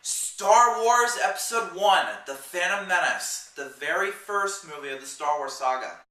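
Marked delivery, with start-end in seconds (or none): 3.6-6.0 sarcastic. Acted. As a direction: air quotes on very first. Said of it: "I'm being sarcastic".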